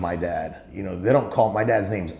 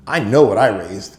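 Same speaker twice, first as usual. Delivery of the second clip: louder, insistent father; firm emphatic repeat; 9 dB louder than usual. Retold or imitated. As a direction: drive the line home.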